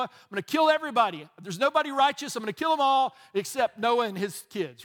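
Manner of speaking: booming mock decree, loud; mock angry God. A preacher voicing God's threat to destroy everyone, loud.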